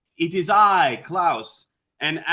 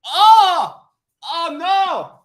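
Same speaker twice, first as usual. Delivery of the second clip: mock wail; 13 semitones higher, 10 dB louder, much slower than usual. Mock despair at the commandment.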